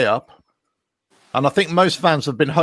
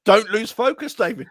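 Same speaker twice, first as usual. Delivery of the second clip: acted phone instruction; 6 semitones higher than usual. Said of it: "I said".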